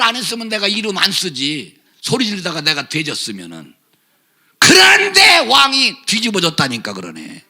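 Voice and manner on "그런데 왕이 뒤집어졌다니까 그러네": shouting through a sob; 목소리가 갈라지는 외침; crying shout. Real, not acted. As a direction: let the voice crack as you shout it. Preacher's climax, cry heard.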